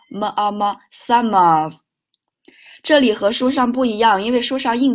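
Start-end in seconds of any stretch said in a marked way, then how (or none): 0.9-1.7 "some of" joined as one word; linked words. Shown as a demonstration. Teacher drilling linking for students, words joined. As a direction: carry the m of "some" straight into "of". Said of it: "连起来".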